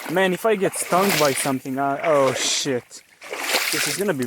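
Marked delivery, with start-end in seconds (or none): 0.1-2.0 nervous. Real, not acted. Nervous crossing of the pond.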